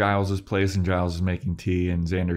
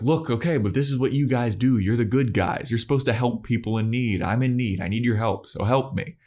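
higher-pitched insistent retold plea; mock pleading; 5 semitones higher than usual. Spike asks the good guys for help, mock pleading. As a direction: argue your case as an imitated beggar.

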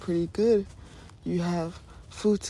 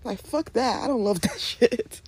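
laughing; 5 semitones higher, 3 dB louder than usual. Real, not acted. Laughing dismissal.

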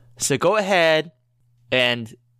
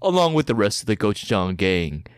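movie trailer voice; 4 semitones lower than usual. Acted. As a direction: sell the epic like a film trailer. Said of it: "you have to read it in a movie trailer voice".

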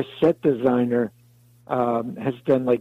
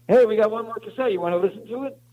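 eager offer; 10 semitones higher, faster than usual. Retold or imitated. Crew member offers cassette.

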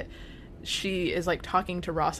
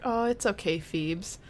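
imitated comforting; 3 semitones higher than usual. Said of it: "she's, like, comforting her".

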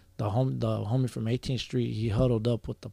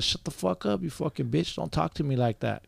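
retold pumped-up anger; 4 semitones higher than usual. Scorekeeper tells off the paisa, retold heat. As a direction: replay a heated comeback without shouting. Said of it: "'Cause I was getting pumped up".

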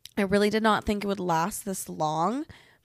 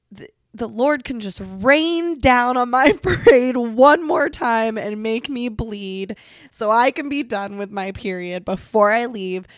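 laughing plea; 8 dB louder than usual. Real, not acted. Praying for her period.

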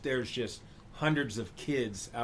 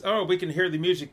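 sarcastic Gary; 6 semitones higher, 6 dB louder, faster than usual. Retold or imitated. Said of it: "And then Gary says".

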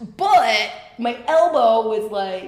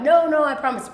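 higher-pitched, imitated insistence; acted reassurance; 5 semitones higher, 4 dB louder than usual. Hurt woman trying not to cry, mock reassurance. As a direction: retell a protest of being fine. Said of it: "I'm trying not to cry".

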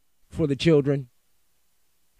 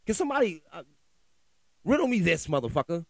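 much higher mocking demand; sarcastic challenge; 5 semitones higher, faster than usual. Real, not acted. Podcaster taunts listeners to explain, mock-incredulous. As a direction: dare someone to explain it.

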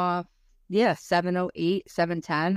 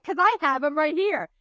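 laughing; 8 semitones higher than usual. Retold or imitated. Telling husband while laughing.

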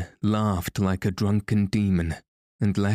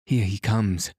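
crying out. Acted. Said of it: "cried Christine".

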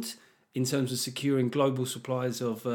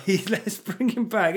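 slow, louder sarcastic repeat; mocking; 7 semitones higher, 4 dB louder, slower than usual. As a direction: lay the sarcasm on. Repeated mock line.

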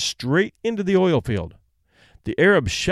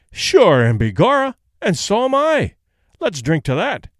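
leprechaun; 5 semitones higher, 5 dB louder than usual. Acted. Irishman toasting in bar joke.

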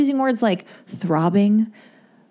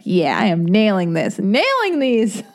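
smug self-praise. Retold or imitated. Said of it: "just being like".

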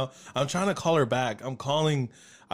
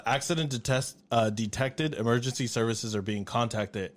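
automated system voice; 3 semitones lower than usual. Retold or imitated. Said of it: "you hear the emergency system kick in".

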